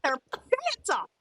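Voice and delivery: high, slow laugh-through; joking about suing on the prairie. Real, not acted. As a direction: giggle your way through it.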